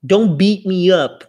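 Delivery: slow, pleading "Don't beat me up"; mock plea. Shown as a demonstration. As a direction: play the one begging. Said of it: "I'll beat you up".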